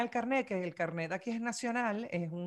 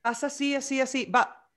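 higher, louder "así, así, va" urging someone on; bossy hurry-up; 4 semitones higher, 4 dB louder than usual. Shown as a demonstration. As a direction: rush them along impatiently. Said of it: "cuando lo dices como que". (apurando a alguien, más agudo y fuerte)

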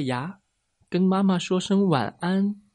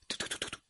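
rapid puttering noise; 17 dB quieter, much faster than usual. A narrator's reading. Imitated noise of dad rushing off.

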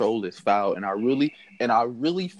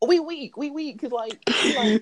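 high-pitched, laughing as they talk; real giggly, breaking-up delivery; weak with laughter; 12 semitones higher than usual. Real, not acted. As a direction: barely get it out for laughing. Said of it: "Me and her low-key weak".

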